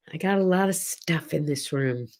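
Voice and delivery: breathy whisper, almost no voice; whispered aside. Real, not acted. Touring the room, she whispers to her viewers. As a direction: lean in and whisper it like a secret.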